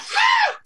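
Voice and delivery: a sudden squeal of laughter, high up; real high-pitched burst of laughing; big high laugh. Real, not acted. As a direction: let a shrieking laugh burst out. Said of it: "letting out one of my".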